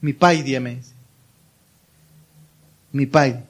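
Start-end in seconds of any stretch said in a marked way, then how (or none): 0.0-0.6 low, gentle pet name; imitating son's tender tone. Son to his dad by pet name, low and tender. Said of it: "Con un tono único". 2.9-3.4 low, gentle pet name; imitating son's tender tone. Son to his dad by pet name, low and tender. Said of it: "Con un tono único".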